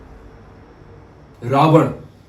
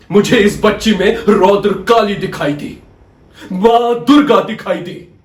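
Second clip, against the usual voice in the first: raised, ringing courtroom tribute; fervent declamation; 4 dB louder than usual. Acted. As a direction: proclaim it with reverent force. Lawyer exalts the girl as goddess.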